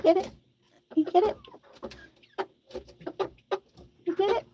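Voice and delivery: high, rising pet-talk question; coaxing a pet. Real, not acted. Owner checking chicken gets the water, coaxing. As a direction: ask it high, lifting at the end. Encouraging a hen to drink.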